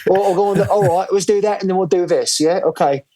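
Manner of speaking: put-on light British accent; breezy British banter, lightly done. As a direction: friend asked about his accent, plays a British mate. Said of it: "your accent changing up every now and then around the, uh, the Brits".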